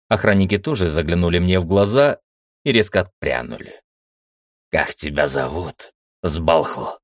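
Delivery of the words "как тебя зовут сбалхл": gloomy. Acted. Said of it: "хмуро спросил мужик".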